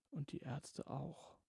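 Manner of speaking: soft, slow secretive mutter; furtive murmur. A narrator's reading. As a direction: murmur it so nobody hears. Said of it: "murmelte sie verstohlen".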